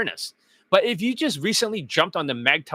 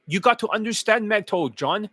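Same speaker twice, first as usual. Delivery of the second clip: raised voice mimicking critics; mocking quote; 4 semitones higher than usual. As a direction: parrot their line back higher. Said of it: "they always say this".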